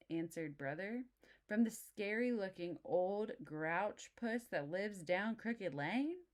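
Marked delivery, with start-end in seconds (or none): 1.5-6.2 slow, rising disbelief; can't believe it, stretch it; incredulous Papa. Acted. Papa questions brother, slow incredulous rise.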